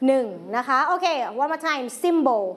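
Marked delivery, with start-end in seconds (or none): 2.0-2.4 "Symbol" with weight on SYM; stress on first syllable. Shown as a demonstration. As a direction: model "Symbol" for the class, first syllable strong, falling end. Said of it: "เน้นหนักไปที่พยางค์ที่หนึ่ง". (เน้นหนักพยางค์แรกของคำว่า "Symbol")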